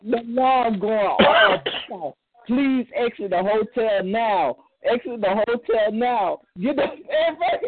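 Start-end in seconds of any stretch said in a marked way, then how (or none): 0.0-6.4 mock alarm announcement. Imitates hotel alarm announcement.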